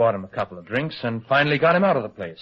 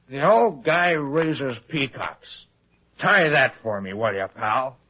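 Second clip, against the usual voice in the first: slow, slurred imitation of a drunk; lightly hammed-up drunk mumble; slower than usual. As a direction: drag it out like a drunk about to pass out. Retelling drunk Malone's words.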